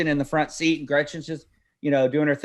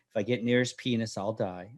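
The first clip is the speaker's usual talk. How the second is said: mumbled answer; 6 semitones lower, 9 dB quieter than usual. Retold or imitated. Daughter's reluctant rote answer.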